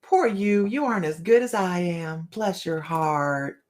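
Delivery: sugary put-down ending in a slow Bless your heart; mock condescension. Host acts a Southern belle's condescending put-down, lightly mocking. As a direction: pity them sweetly, then land it slowly. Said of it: "That's it right there".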